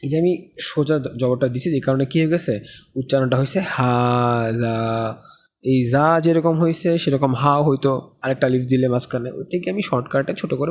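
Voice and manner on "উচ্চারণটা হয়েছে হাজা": হাজা said slowly, the first a stretched long; slow demo of a stretched vowel. Shown as a demonstration. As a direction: draw out the হা in হাজা. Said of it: "খাড়া লম্বা".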